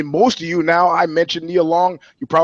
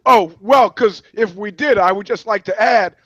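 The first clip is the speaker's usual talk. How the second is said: mock backpedal; 5 semitones higher, 3 dB louder than usual. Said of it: "she goes".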